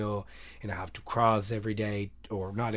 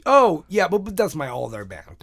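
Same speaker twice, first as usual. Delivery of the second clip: retold flustered excuse; 8 semitones higher, 11 dB louder than usual. Caught out, excusing himself to officer.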